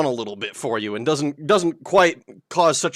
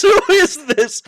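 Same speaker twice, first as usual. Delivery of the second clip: surprised; 14 semitones higher, 9 dB louder than usual. Real, not acted. Shocked by the changed voice.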